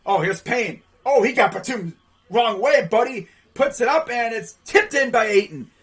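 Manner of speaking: lively basketball call; live play-by-play. Real, not acted. Commentator calls Payne's play to a tip-in, lively play-by-play. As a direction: follow the play as it unfolds.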